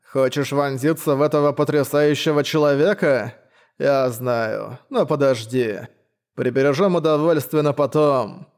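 lisping knight voice; slushy lisp. Acted. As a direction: keep the wet lisp going. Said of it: "Странный шепелявый голос".

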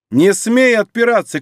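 loud furious cry; shouting. A narrator's reading. Ingeborg-like wife yelling at the accusing woman, furious shout. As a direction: shout it at her, eyes blazing. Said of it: "кричит Ингер".

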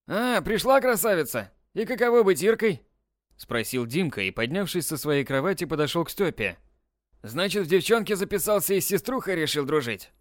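lightly voiced big brother, sneering; mocking older boy. Dimka mocking Styopa in the swimsuit, lightly jeering.

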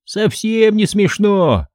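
slow wheezy gnome; wheezing. A narrator's reading. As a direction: rasp it out slowly. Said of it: "сипел Фикс".

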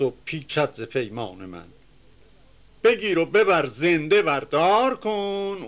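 measured, chanting reading of epic verse; reciting classical Persian verse; poem recitation. Acted. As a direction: declaim the couplets with rhythm.

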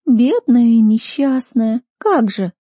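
sarcastic snorting mock pity; scornful snort. A narrator's reading. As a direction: drip sarcasm over it slowly. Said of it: "фыркнула она".

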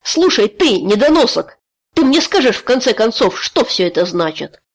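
loud, high-pitched insult, then demanding; furious shout. A narrator's reading. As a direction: screams at him to explain. Tai yells at Keriš.

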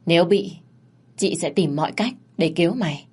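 lightly voiced big sister, calm and in charge; Ngân, big sister. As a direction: reassure the boy like a boss sister.

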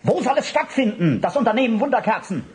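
high giggly voice, fast at the end; giggling, teasing. Acted. Accomplice teasing Barth about the plan, high and giggling. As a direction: laugh through the question like it's a joke.

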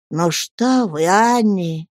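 lightly voiced gentle old doctor; kind. Old doctor gently reassuring his young wife, kind. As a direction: soothe her kindly. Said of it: "ласково сказал доктор".

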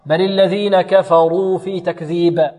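slow recitation with full, heavy ru in كفروا. Shown as a demonstration. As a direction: thicken the damma'd ra of كفروا. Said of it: "تفخم". (تفخيم الراء في كفروا)

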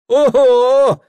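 high, loud ogo; exclaiming. A narrator's reading. Exile startled by the merchant's scorn, exclaiming. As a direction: exclaim in amazement. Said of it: "воскликнул ссыльный".

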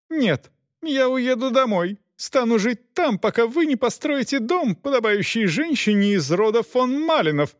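wife refuses to leave the carriage, high and indignant; shouting. A narrator's reading. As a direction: demand it like a spoilt countess. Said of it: "кричала она".

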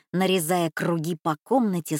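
ordinary delivery, nothing marked

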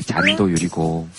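ordinary delivery

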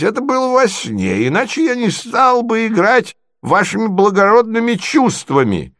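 beam with relief, high; overjoyed old prince. Acted. Prince to Marya, high and overjoyed.

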